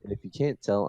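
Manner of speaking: speech slurred by a retainer; talking with a retainer. Real, not acted. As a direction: talk around a retainer in your mouth. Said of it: "I'm talking a little weird 'cause I had to put my retainer in".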